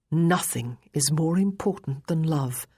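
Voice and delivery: "Nothing" emphasised at the head of the line; stress on first word. A narrator's reading. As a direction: lean on "Nothing", then ease off. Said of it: "He had put emphasis on the first word".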